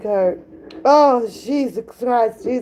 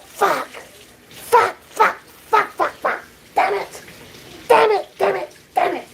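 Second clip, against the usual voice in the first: higher, repeated self-scolding curses; mock frustrated cursing; 7 semitones higher than usual. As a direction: curse like you're punching a pillow. Voicing embarrassed viewer beating pillow.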